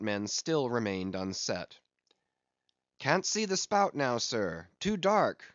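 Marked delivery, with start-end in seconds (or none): 3.0-5.4 calling down. Acted. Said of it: "cried a voice from the air".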